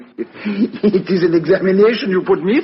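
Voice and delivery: chuckling through the words; amused protest at being tested; laughing. Acted.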